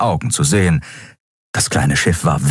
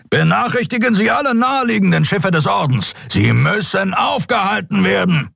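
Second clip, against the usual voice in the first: high, ringing shouted orders; shouting captain; 14 semitones higher than usual. Acted. Sron shouting orders to alert the fleet, high. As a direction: command the whole fleet.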